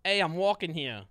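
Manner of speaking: New York accent. Shown as a demonstration. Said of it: "Do a New York accent".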